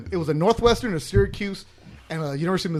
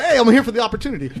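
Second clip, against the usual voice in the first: laughing mock excuse; 5 semitones higher, 6 dB louder, faster than usual.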